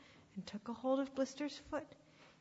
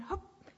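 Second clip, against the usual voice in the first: high, short straining hup; acted heave; puff of effort; 9 semitones higher than usual. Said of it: "he puffed".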